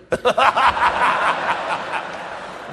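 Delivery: voiceless wheezing laugh, high and loud; breathy laugh. Real, not acted. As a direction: let the laugh burst out without voice. Reacting to shared point.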